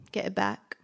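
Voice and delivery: breathy whisper, no voice. Shown as a demonstration. Poet repeating her line as a whisper.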